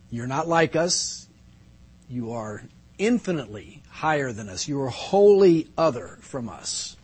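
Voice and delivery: reverent, measured prayer with pauses; public prayer. Real, not acted. Pastor praying to God before the congregation, reverent and measured. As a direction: pray reverently, letting each phrase settle.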